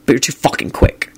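understated grievance; deadpan, with the anger drained out; impassive. A narrator's reading. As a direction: say it without any heat. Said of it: "he said impassively".

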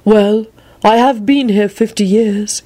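politely unruffled; pleasant. A narrator's reading. Long-serving Barnabas to his lord, pleasant. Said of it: "he responded pleasantly".

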